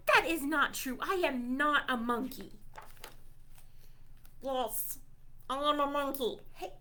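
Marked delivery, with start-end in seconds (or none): none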